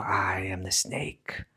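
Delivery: a hint of a snake, very slow; lightly voiced snake, drawn out. Krishna announces himself as the snake, lightly acted snake voice. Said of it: "speak in the voice of the snake".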